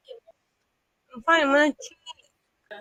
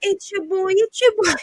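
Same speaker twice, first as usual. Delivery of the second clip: high, loud hype-man shout; hyped self-introduction, louder each time; hype intro; 11 semitones higher, 6 dB louder than usual. Pretend. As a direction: announce yourself like a streamer. Hyping himself up.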